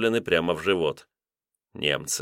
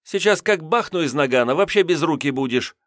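threatening; 8 semitones higher than usual. A narrator's reading. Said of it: "пообещала".

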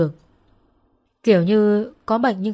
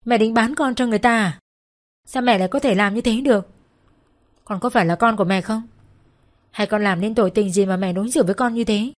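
understated angry outcry, slightly raised; a hint of a yell at her mother; mild shout. Daughter cries out at mother selling her, mildly raised. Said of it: "hét lên".

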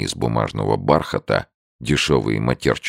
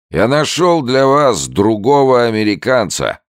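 much higher, louder, weighty announcement; drunk old man, portentous; 12 semitones higher, 6 dB louder than usual. A narrator's reading. Drunk old man to Andrews, portentous and loud. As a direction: make it momentous, tipsy. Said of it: "сказал старик значительным тоном".

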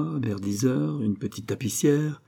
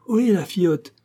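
high, raised hoarse call; 9 semitones higher, 5 dB louder than usual. A narrator's reading. Carter hailing the inn girl, hoarse call. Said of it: "de sa voix enrouée".

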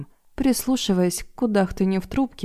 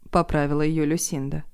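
plain reading voice

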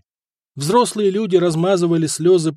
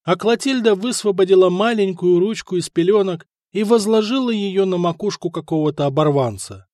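plain reading voice

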